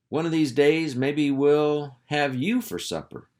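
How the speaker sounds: a sly buzzard hinting he'll eat you; menacing buzzard. Acted. Buzzard Wallace threatens the dog.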